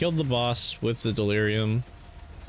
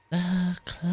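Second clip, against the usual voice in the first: higher, badly faked alien voice; Toy Story alien voice; 9 semitones higher than usual. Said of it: "I'm really bad at it".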